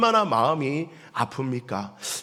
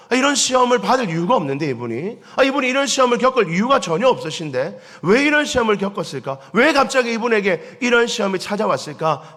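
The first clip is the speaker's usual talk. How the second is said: raised, louder wondering aloud; puzzled musing; 5 semitones higher, 3 dB louder than usual. Retold or imitated. Pastor voicing a baffled believer, raised puzzled question. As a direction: ask it as if truly baffled.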